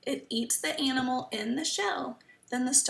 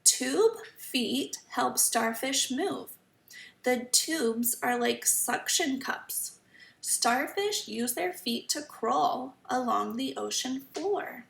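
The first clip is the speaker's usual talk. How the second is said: slow, careful storybook reading; reading to children. Acted. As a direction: read each sentence slowly for kids. Reading the book aloud.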